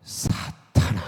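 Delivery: a stern, breathy, hushed "사탄아"; low warning spoken almost under the breath; hushed rebuke. Retold or imitated. Jesus rebuking Peter in a hushed, stern voice. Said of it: "주님께서 이때 뭐라고 말씀하시냐면".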